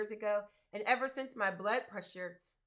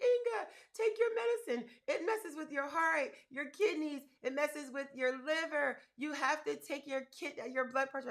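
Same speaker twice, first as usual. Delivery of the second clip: imitating a tearful friend, pitched much higher; crying friend; 5 semitones higher than usual. Imitating friend Tanya begging her to take her medicine, high and pleading. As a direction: mimic a pleading, weepy friend. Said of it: "my friend Tanya literally boo-hoo cried".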